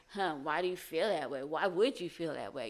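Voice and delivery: a touch of a prying, accusing edge. Shown as a demonstration. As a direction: ask why as if blaming them. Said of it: "they might hear".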